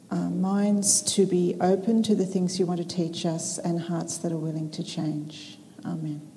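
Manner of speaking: measured, reverent prayer delivery; opening prayer. Real, not acted. Speaker leading the seminar audience in prayer before starting, prayerful.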